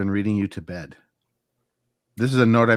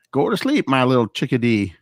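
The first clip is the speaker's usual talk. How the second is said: W C Fields; 3 semitones higher than usual. Retold or imitated. Bedtime tape comedian addressing a child, comic impression. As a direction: put on an old comedian sending someone to sleep. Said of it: "It was, uh, W C Fields".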